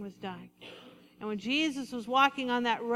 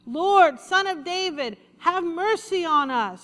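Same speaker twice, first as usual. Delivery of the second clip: loud, higher cry for mercy; louder shouting plea; 5 semitones higher, 9 dB louder than usual. Acted. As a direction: call out louder, pleading. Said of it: "they only shouted louder".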